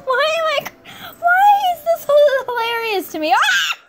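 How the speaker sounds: high, loud, laughing out the words; real helpless laughter. Real, not acted. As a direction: crack up mid-sentence. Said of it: "That is so funny".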